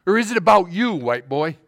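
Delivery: excited worshipper. Retold or imitated. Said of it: "he got all excited about her".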